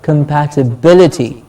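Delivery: "compatibility" as com-pat-i-BIL-i-ty; stress on BIL. Shown as a demonstration. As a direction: model "compatibility", beat on "bil". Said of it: "Bil gets a stress".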